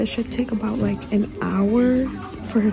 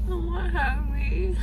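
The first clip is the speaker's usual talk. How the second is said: crying; 4 semitones higher than usual. Real, not acted. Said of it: "you're really crying".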